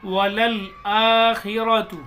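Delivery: वलल आखिरतु read slowly, each syllable clear; teacher modelling वलल आखिरतु; slow demo reading. Shown as a demonstration. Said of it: "इस तरीके से पढ़ेंगे".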